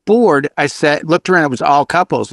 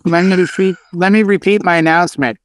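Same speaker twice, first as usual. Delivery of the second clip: DJ announcement in a put-on Boston accent. DJ repeating his announcement to Massachusetts guests, Boston accent. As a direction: lay on the Boston for the crowd. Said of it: "he's doing a Boston accent".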